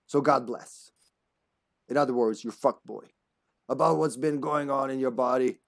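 measured, lightly put-on informant voice; letter writer's voice. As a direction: read the warning letter in character, drawing out key phrases. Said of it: "they all speak with this voice. I decided".

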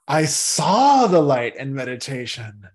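slow down and press on saw; stress on saw. Shown as a demonstration. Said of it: "You can emphasize any of those words".

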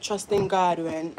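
a hint of another girl's voice; mimicking that girl. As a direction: say it like the girl she reminds you of. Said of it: "Why did you say it like that?".

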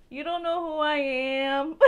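slow, loud challenge breaking into a laugh; mock tough talk. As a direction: act tough but crack up. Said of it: "I be like".

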